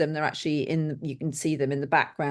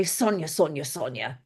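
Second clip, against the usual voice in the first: a light imitation of a lower, softer Ollie calling her name; Ollie's deep voice; 3 semitones lower, 4 dB quieter than usual. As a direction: drop the voice and draw out the name, lightly mimicking. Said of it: "in that deep voice".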